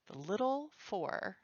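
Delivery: slow, badly faked Mid-Atlantic accent; terrible mock accent. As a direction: draw out the title in an attempted Mid-Atlantic accent. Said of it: "pardon my terrible accent".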